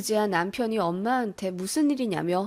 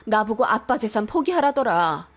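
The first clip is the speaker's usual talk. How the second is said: furious sister; 3 semitones higher, 5 dB louder than usual. Acted. Sister confronts brother-in-law.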